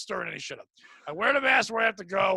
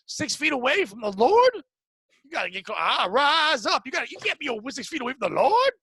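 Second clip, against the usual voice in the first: hint of a mock preacher; 4 semitones higher, 4 dB louder than usual. Mocking distanced worship, with a touch of preacher fervor. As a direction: lightly ham it up like a preacher.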